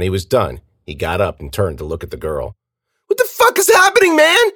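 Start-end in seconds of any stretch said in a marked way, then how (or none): 3.1-4.5 very high, loud bewilderment; panicked cry. A narrator's reading. Girl watches friend's killer turn to her, panicked.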